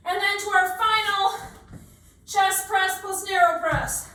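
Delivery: strained, slow, arms trembling; shaking with effort. Real, not acted. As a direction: push the words out while straining. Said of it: "My arms are shaking".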